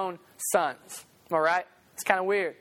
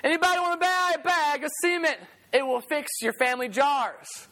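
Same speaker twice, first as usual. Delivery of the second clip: put-on old peddler's call; 2 semitones higher than usual. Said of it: "he'd say".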